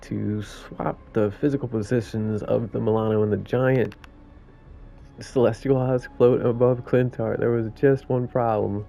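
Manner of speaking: lightly voiced New York raccoon; storytelling in a loosely faked New York accent; badly faked New York accent; sarcastic New York accent. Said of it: "That was my worst New York accent".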